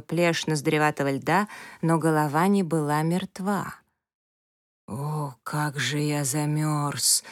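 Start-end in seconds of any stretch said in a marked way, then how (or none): 4.9-7.2 muffled from inside ice. Acted. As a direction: moan it as if through a wall of ice. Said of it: "глухо донеслось из недр глыбы".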